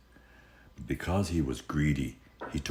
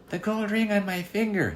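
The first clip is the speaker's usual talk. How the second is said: put-on a small frightened girl's voice; tearful girl. Girl in the locked room tells the little man, high and tearful. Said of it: "said the girl".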